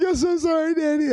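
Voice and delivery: put-on very high child's apology; imitated little daughter. Voices his little daughter apologising.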